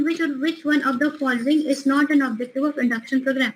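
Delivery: slow, deliberate exam-question reading; reading a question aloud. Acted. Teacher reading a quiz question to students, slow and deliberate. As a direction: read it out word by word for the class.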